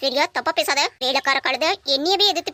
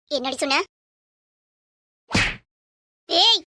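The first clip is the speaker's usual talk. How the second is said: angry shout; slower than usual. Acted. Woman to Aishwarya after an insult, furious shout. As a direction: bark it out to cut her off. Furious retort in family fight.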